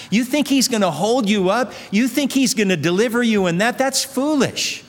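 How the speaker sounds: mock them like gloating doubters; a preacher's mildly hammed-up scoffing voice; mocking scoffers. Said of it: "they'll gloat, they'll laugh".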